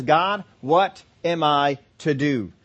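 slow, searching questions to God; a believer seeking direction, slowly; humble prayer. Retold or imitated. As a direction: ask sincerely and unhurried. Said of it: "Faith says".

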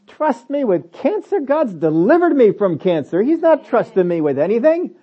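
high, sharp rebuke of a false claim; indignant rebuke. Retold or imitated. Preacher rebuking Satan for his listeners, indignant. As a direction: throw the lie back at Satan in disbelief. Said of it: "you get indignant about it".

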